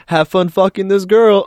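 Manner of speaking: put-on high, loud old-lady falsetto; imitated old lady. Old lady sends the teenager off, high put-on voice. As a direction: cheer him on as a high-voiced granny. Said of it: "she's like".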